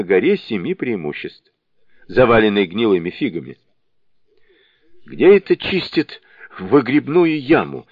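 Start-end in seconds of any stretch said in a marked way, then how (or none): 5.0-7.9 запыхавшийся вскрик на бегу; кричит, едва переводя дух; задыхаясь. A narrator's reading. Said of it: "задыхаясь, вскрикнул Джубадзе". (задыхаясь на бегу)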